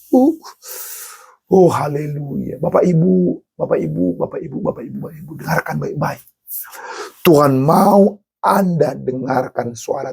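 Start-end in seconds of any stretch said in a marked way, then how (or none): 3.6-6.2 hushed call. Real, not acted. Preacher dropping to hush.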